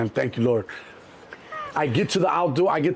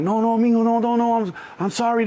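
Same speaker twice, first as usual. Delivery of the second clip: high, louder rush of denials; placating apology; 7 semitones higher, 3 dB louder than usual. Retold or imitated. Colombian apologising to angry buyer, placating. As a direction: hurry to pacify him.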